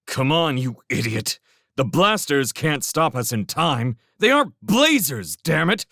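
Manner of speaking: exasperated urging. A narrator's reading. Felix holds Railsmith back and argues, exasperated. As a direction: argue forcefully against his panic.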